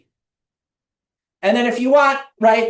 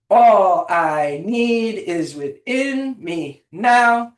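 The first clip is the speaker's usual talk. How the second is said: "now" lifted and pushed at the end of a slow chant; stress on now; much slower than usual. Shown as a demonstration. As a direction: land firmly on the last word, "now". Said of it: "stress on the different words".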